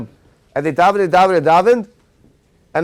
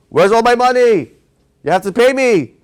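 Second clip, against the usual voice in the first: demanding king; 5 semitones higher, 4 dB louder than usual. Acted. King demands his money.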